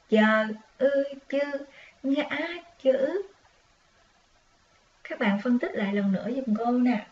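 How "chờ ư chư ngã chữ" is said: sing-song spelling. Shown as a demonstration. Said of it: "dấu ngã trên ư".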